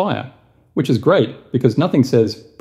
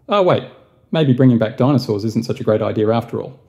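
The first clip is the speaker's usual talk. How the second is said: sudden realization. Retold or imitated. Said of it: "the scientists ... realized".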